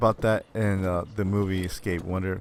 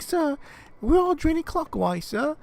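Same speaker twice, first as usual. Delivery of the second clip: put-on much higher squeaky kid reporting back. Kid reporting back to the prank caller, squeaky high voice. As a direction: pipe it up high like an eager little kid.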